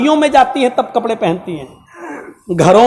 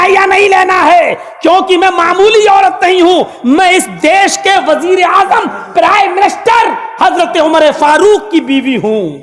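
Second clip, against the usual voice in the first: proud wife's thoughts; 5 semitones higher than usual. Acted. Wife weighing the gift proudly.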